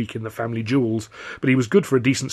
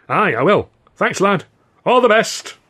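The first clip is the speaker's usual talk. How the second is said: higher, slow, folksy working-man voice; cheery old pal Billy; 10 semitones higher, 8 dB louder than usual. A narrator's reading. Old pal answering Arthur's greeting, slow folksy cheer. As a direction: play the chummy old mate, unhurried.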